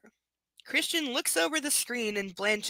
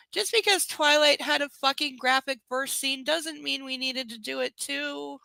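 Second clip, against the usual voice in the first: louder, higher protest; indignant, pitched up; exasperated complaint; 3 semitones higher, 4 dB louder than usual. Real, not acted. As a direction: object to the book with raised voice. Reader complains about the graphic scene.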